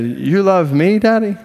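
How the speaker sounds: put-on high, rising little-boy question; imitating toddler. Toddler asking daddy after a laughing game, childlike. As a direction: mimic a small son asking, lifting high at the end. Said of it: "caught his breath from laughing".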